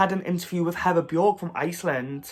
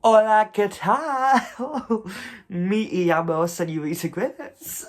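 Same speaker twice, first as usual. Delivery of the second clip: hammed-up learner's Spanish greeting with laughs; attempted Spanish; 3 semitones higher than usual. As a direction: try out Spanish phrases, giggling. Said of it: "try and speak a bit of Spanish".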